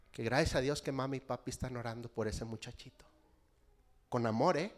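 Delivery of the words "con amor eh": with love. Shown as a demonstration. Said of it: "No con coraje".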